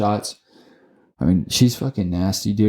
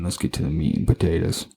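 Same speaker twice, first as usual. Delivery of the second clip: mock Southern accent; 4 semitones lower, 4 dB quieter than usual. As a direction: quote yourself in a half-hearted Southern accent. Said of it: "I'm not fucking Southern".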